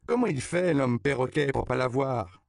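put-on high, loud little girl teasing; child voice. A narrator's reading. Little girl teasing the parrot man. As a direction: tease him with a piping child's voice.

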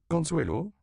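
high, loud call of a name. A narrator's reading. Josefa calls the little girl over, calling out. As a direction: call the child over from afar. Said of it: "appela celle-ci".

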